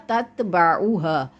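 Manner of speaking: slow तत्बाऊहा with each vowel distinct; corrected reading. Shown as a demonstration. Teacher corrects student's slipped vowel, slow careful तत्बाऊहा. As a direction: say तत्बाऊहा slowly, every vowel in place. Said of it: "एक तो ये तत्बाऊ लफ्ज़ था".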